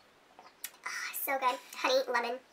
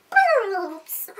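playful shout; 6 semitones higher, 6 dB louder than usual. Pretend. Chanting the word bloops.

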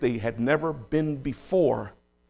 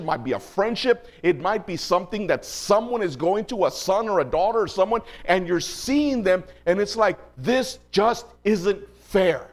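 pressing, rhythmic list to a congregation; impassioned preaching; 5 semitones higher than usual. Real, not acted. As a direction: preach it insistently, piling up example after example.

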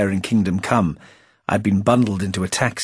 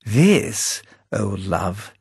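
Playfair's voice; slower than usual. A narrator's reading.

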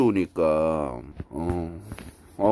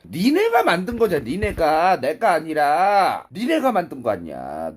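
loud, high protest with stretched endings; shouted accusation; 5 semitones higher, 6 dB louder than usual. Real, not acted. Streamer blaming viewers for the broadcast, shouted protest. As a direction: throw the blame back at full voice.

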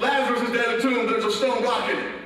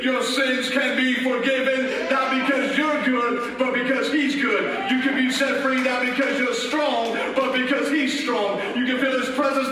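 emphatic, measured pulpit cry; raised, insistent preaching voice; mild preached scream; 2 semitones higher than usual. Acted. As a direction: proclaim it forcefully, weighting each contrast. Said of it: "The voice is screaming".

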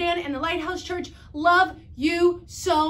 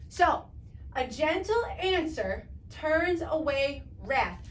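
ordinary delivery

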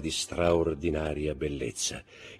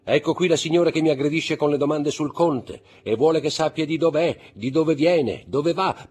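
higher, louder, playfully exasperated gentleman; a dandy begging for rescue, raised and bright; Debray pleading; 11 semitones higher, 9 dB louder than usual. Acted. Debray begs Morcerf for help, mock-exasperated.

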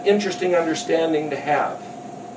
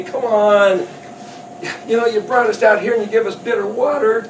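higher, mock-exasperated complaint; complaining appeal; 4 semitones higher than usual. Appealing to the Almighty over bitter water, complaining. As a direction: protest upward as if wronged. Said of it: "appeal to the Almighty".

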